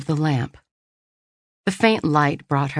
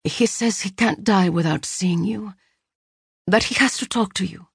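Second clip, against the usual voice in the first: sister's voice; 5 semitones higher than usual. Acted. Sister pleading on phone.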